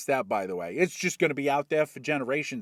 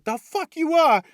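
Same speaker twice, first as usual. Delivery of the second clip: loud defiant shout; 11 semitones higher, 7 dB louder than usual. Acted. Kid yelling back at his robot dad, defiant shout.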